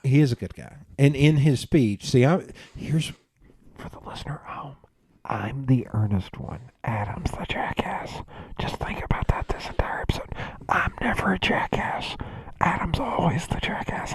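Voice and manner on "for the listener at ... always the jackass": muffled whisper behind cupped hands; hands cupped over mouth. Real, not acted. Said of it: "I'm cupping my hands over my mouth".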